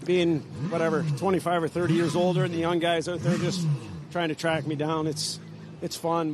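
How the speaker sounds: breathless after the race; out of breath. Real, not acted. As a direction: talk while still catching breath. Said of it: "Just a little out of breath".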